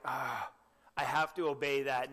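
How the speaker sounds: reluctant, put-upon sigh on have to; mock a bored, dutiful groan; grudging sigh. Preacher mocking a reluctant believer, grudging sigh. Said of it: "I hope that you never look at God's commandments that way".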